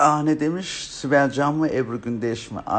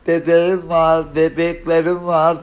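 slow, raised mock yell; imitated yelling; 4 semitones higher, 5 dB louder, slower than usual. Mimicking how Peltek yells about babies, slow mock bawl. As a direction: mimic someone bawling, stretching the words. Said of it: "diye bağırır o da".

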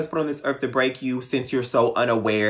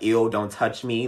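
grossed out. Retold or imitated. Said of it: "they're grossed out".

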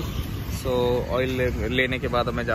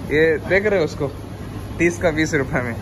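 playful protest over a price; teasing mock complaint; 4 semitones higher than usual. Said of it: "नहीं, नहीं, मजाक करता हूँ". (मज़ाक में शिकायत)

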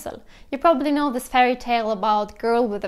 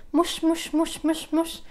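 Italian cat call; 5 semitones higher than usual. Shown as a demonstration. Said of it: "to call a cat".

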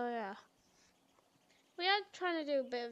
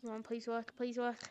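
soft begging under the breath; pleading with a machine; 4 semitones lower, 8 dB quieter than usual. Real, not acted. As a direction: quietly beg it to work. Willing a game server to work.

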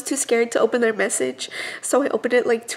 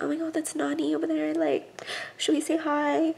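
mock fan voice; 3 semitones higher, 6 dB quieter than usual. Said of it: "they'll be like".

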